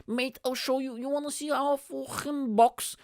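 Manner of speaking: high-pitched mimicked drunk; drunk guy impression. Drunk stranger offering comedian a show, high mimicked voice. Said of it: "he was like".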